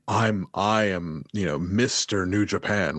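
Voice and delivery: slow, smug heel boast; lightly voiced smug heel, drawn out; patronizing heel. Mocking how a heel would brag, slowly smug. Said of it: "so many heels could be like".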